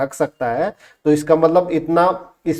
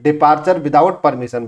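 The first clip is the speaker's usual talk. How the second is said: slow dictation; slower than usual. Shown as a demonstration. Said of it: "without permission के आप चले गए हो".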